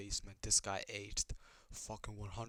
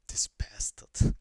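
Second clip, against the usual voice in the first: whisper; 8 dB louder, much slower than usual. Retold or imitated. Mocking the character's line.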